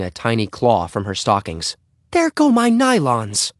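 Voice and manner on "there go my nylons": high, slow wail of dismay; dismayed exclamation. A narrator's reading. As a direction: lament it high, drawing out the words. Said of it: "exclaimed Missus Huggins".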